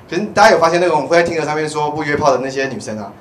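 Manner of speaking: ordinary talk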